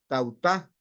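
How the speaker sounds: tautá with the stress on the final U; Greek word tautá. Shown as a demonstration. Pastor teaching the church a Greek word, careful stress on tautá. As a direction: say tautá slowly, leaning on the last syllable. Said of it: "con acento en la U".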